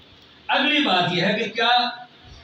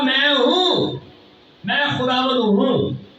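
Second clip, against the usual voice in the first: "मैं हूं" stretched slowly and raised in pitch; emphatic proclamation; 4 semitones higher than usual. Acted. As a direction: declare "मैं हूं" with long, high vowels. Preacher proclaims Jesus's "I AM.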